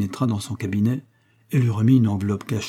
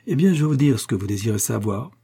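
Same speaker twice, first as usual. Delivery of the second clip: fierce glee. Acted. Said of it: "avec une joie féroce".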